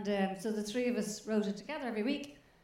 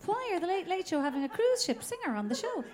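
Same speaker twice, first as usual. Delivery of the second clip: high, louder, scandalised viewer; high mock outrage at a dud act; mock indignant complainer; 8 semitones higher, 4 dB louder than usual. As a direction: squeal it like an outraged viewer at home. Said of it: "There was complaints".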